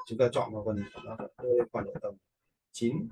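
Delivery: normal talking voice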